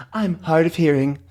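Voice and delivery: high character voice; hard-of-hearing visitor. Acted. Voices deaf visitor again.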